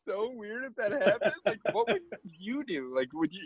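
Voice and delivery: high, airy mock of a friend; mocking impression. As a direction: ham up his innocent question.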